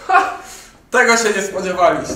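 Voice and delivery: spring it on them like a game show host; mock-triumphant ad pitch; triumphant gotcha. Promo gotcha reveal.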